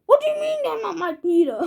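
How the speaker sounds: fast, high line breaking into laughter; can't keep a straight face while quoting; laughing through a quote. Acted. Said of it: "And he says".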